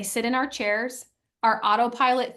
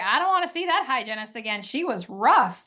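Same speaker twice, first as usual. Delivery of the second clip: complaining husband. Retold or imitated. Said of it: "he was like".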